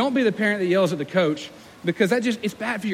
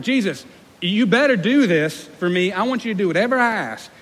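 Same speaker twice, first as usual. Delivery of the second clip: mock demanding prayer; 3 dB louder than usual. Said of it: "Can you imagine telling Jesus that".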